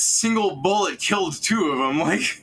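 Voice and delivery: high, loud amazed outburst. Real, not acted. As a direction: marvel loudly at the shot. Amazed at the shot.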